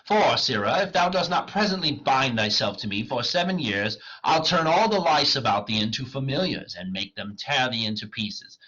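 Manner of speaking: loud, declaimed menace; theatrical threat. Acted. Wagner threatens the clown into service, loudly declaimed. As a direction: bear down hard on the opening words.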